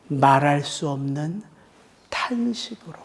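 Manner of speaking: whispered groan spoken to the congregation; hushed whisper. Real, not acted. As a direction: let the words sink into a whisper. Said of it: "echoes the groaning that cannot be uttered".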